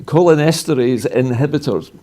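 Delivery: careful, deliberate pronunciation of a hard term; said slowly. Real, not acted. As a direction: take the technical term syllable by syllable. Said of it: "I'll have to say this slowly".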